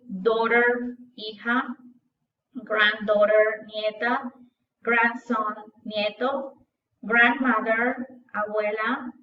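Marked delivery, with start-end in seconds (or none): 2.5-3.6 slow drill word. Shown as a demonstration. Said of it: "vocabulary drill". 7.0-8.1 slow drill word. Shown as a demonstration. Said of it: "vocabulary drill".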